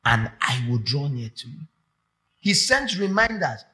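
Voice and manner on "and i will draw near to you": quoting scripture. Acted. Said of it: "The scripture says".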